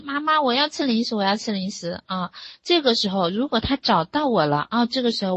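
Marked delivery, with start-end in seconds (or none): 0.0-2.0 lightly voiced kid begging mom, starting high; a touch of childish whining, easing off; pleading child. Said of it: "然后他就说".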